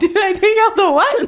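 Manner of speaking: high amused whisper. Pretend. Host whispering back the sleep-talk question. Echoing the whispered quote, laughing.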